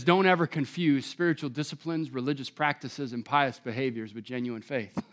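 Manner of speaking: hushed warning about faith; earnest warning. Retold or imitated. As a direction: say it low like a grave warning. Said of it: "He says".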